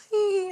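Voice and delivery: high, smiling "ee"; high mock "ee" through a smile; mimicked smiling squeal. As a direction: imitate Americans' grinning British accent. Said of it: "They say it with the".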